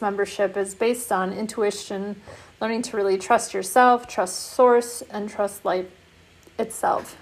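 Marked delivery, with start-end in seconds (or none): 2.6-7.2 talking through hiccups; speaking with the hiccups. Real, not acted. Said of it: "I have the hiccups".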